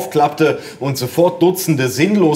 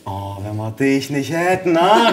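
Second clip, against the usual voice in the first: delighted mother. A narrator's reading. Mother praising her helpful child, gushing with delight. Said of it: "rief meine Mutter begeistert".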